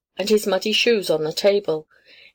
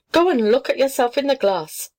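put-on a lightly haughty cat, looking down on the child; 6 semitones higher than usual. A narrator's reading. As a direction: sniff at the child from above. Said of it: "said the tommy cat haughtily".

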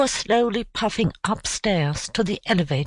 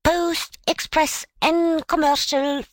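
high-pitched street cry; urchin's sing-out sales call, raised in pitch; newsboy calling out; 8 semitones higher than usual. Acted. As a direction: hawk the evening papers in a high voice. Newsboys calling out their papers.

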